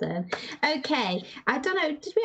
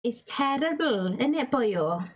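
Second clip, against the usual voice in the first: slow, lilting Welsh accent; slower than usual. Shown as a demonstration. Host teaching the panel the accent, Welsh lilt. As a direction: stretch it out like a Welsh speaker. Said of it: "the accent, I think you have to say".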